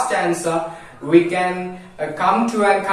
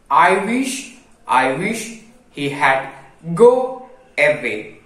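slightly raised, measured reading of a verse; poem recitation; 2 semitones higher than usual. Acted. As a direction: recite the ghost poem to the class.

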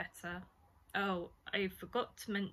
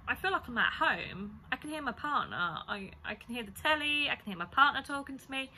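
retold insistent patient, higher pitched; dazed insisting; 5 semitones higher, 4 dB louder than usual. Dazed patient telling the nurse she's at home, retold insistently. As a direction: insist like a confused patient, lightly acted.

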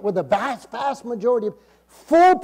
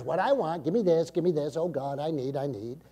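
imitated self-centred begging, fading away; mock needy pleading; 4 semitones lower, 6 dB quieter than usual. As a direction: rattle off mock pleas, sinking lower and softer. Mimicking self-centred pleading to God.

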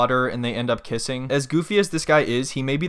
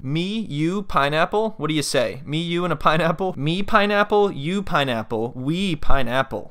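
stammering awkward suitor; 3 semitones higher, slower than usual. Retold or imitated. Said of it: "take the fruit away from him".

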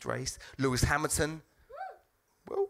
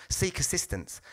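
flat automated announcement; lightly voiced machine prompt; slower than usual. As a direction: read it like the ticket machine. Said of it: "it came up".

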